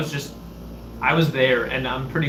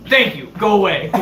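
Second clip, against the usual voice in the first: mock curt dismissal; 4 semitones higher, 5 dB louder than usual. Imitates chief dismissing him.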